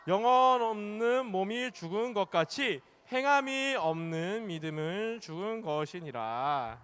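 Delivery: slow, drawn-out recitation; unison scripture reading. Real, not acted. Preacher leads children reading a Bible verse, slow measured recitation. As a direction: read it slowly so all keep together. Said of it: "같이 한 목소리로 읽어볼게요".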